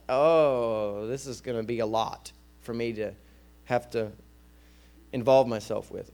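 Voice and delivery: a touch of weary reluctance, acted; mild reluctant dread. Preacher voicing someone avoiding responsibility, mild dread. Voices dread of getting involved.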